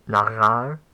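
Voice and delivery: nagar with the weight on gar, rising; stress on the final syllable. Real, not acted. Teacher naming a Hebrew example, stressing the final syllable. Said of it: "I was putting stress on the final syllable".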